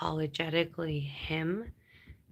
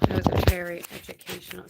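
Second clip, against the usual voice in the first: excited praise; 8 dB louder, faster than usual. Real, not acted. Enthusing about show.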